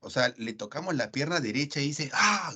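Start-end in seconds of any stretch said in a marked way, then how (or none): 2.1-2.5 un ¡Ah! agudo imitando el grito del trabajador; grito imitado de dolor. Retold or imitated. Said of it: "grita fuerte". (trabajador herido grita al tocarle la pierna, grito agudo imitado)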